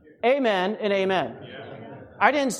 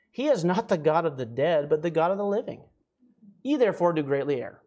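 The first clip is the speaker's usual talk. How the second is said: scripture reading; 3 semitones lower than usual. Acted. Reads scripture aloud.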